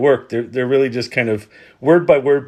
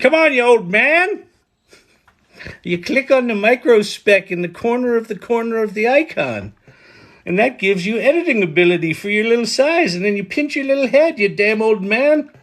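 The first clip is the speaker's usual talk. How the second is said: put-on very high, scolding, crotchety old-man voice; 9 semitones higher than usual. Imagining an eighteen-year-old viewer scolding the speaker, talking like an old man. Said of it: "why is an eighteen year old talking like an old man?".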